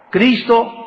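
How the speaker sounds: ordinary talk, nothing marked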